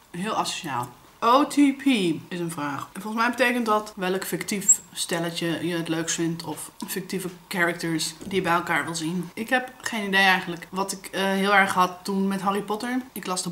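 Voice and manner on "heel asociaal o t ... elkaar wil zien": talking while chewing; mouth full. Real, not acted. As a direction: speak through a mouthful of food. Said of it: "Ik ga met volle mond praten". (met volle mond)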